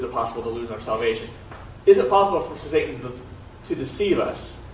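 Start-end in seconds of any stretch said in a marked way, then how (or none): 1.9-4.6 shivering, teeth chattering; cold, stuttering through chattering teeth. Real, not acted. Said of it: "my teeth are chattering, that's why I'm stuttering".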